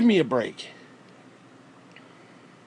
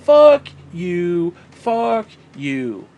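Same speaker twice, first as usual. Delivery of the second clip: angry shout; 7 dB louder, much slower than usual. Real, not acted. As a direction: shout Fuck you loud. Angry rant repetition.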